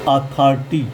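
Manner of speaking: अथॉरिटी as "aa-thaar-tee"; अथॉरिटी in careful syllables, AA in place of O. Shown as a demonstration. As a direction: say अथॉरिटी with an open AA after "th". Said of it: "ओ का उच्चारण".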